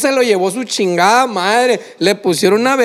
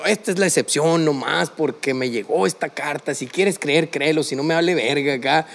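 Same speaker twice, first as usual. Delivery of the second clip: citando al autor; 5 semitones lower, 6 dB quieter than usual. Retold or imitated. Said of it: "escribió esto".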